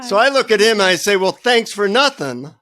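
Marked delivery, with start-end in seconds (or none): 1.1-2.5 high, slow mock thanks; peeved, sarcastic comeback; sarcastic retort. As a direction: drag it out in comic annoyance.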